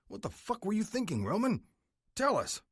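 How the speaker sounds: furious shout. Acted. Vice president yells at Roman after the killing, furious. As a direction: lay into him, furious. Brass demands an answer.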